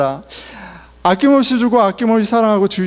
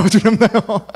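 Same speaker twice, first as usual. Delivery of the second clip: laughing repeat; 3 semitones higher than usual. Shown as a demonstration.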